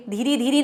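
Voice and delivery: धीरे धीरे said with final ee vowels; wrong inflected form. Shown as a demonstration. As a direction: end each धीरे on ee, dhee-ree. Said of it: "धीरे धीरे नहीं बोलेंगे".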